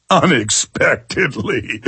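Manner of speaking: slow, mocking repeat of Unexpectedly; sarcastic echo. Real, not acted. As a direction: drag out Unexpectedly with disbelief.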